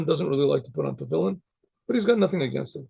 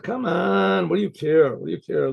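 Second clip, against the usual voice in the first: coaxing nag. Retold or imitated. Wife talking her husband into tefillin, mildly nagging. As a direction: lightly imitate a wife urging him along.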